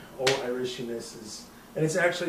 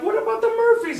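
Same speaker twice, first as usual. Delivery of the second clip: much higher and louder, urgent; excited reminder; 9 dB louder than usual. Retold or imitated. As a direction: remind a friend with mock alarm. Friend reminding him of beer.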